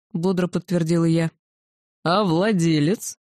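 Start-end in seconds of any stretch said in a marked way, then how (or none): 2.0-3.2 slow, drawn-out dragon roar. A narrator's reading. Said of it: "взревел дракон".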